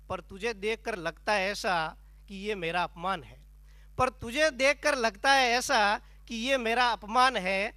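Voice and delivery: declaimed verse with drawn-out line openings; comic poem recitation. Acted. Poet tells audience of Menaka's failed temptation, declaimed comic verse. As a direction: recite it as mock-heroic stage poetry.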